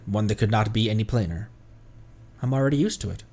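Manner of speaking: calm lore reading voice; story narration. Acted. Reads character lore aloud.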